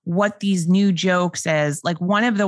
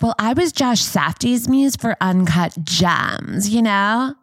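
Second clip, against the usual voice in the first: New York voice. Retold or imitated. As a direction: quote her, lazy downtown New York tone. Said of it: "thought that was a New York voice".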